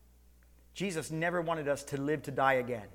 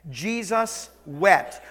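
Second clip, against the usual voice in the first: slow repeat; 2 semitones higher, 6 dB louder, much slower than usual. Shown as a demonstration.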